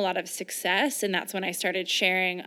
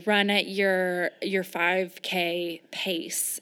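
mock workout instruction; much slower than usual. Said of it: "and it will say".

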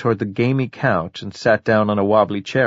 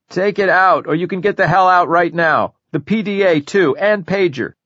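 higher, louder furious orders; angry demand; 7 semitones higher, 3 dB louder than usual. Acted. Recluse orders the detective to pull batteries, angry and louder. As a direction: bark at her to pull the battery.

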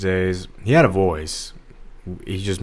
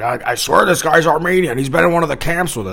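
imitating Drew; 9 semitones higher, 6 dB louder than usual. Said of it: "He's like, he's like".

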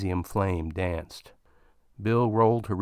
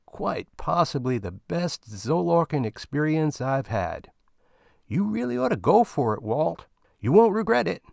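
Bill boasting about the best Zolark of his life; gleeful boast; 5 semitones higher than usual. Acted. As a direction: brag like a satisfied customer.

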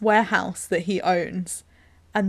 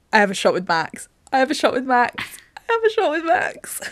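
each repeat climbs higher, giddy; giddy rising repeat; 4 semitones higher than usual. Retold or imitated. Friends retelling a film, mocking girls swooning, rising giddy. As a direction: build up the excitement with each go. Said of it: "being like".

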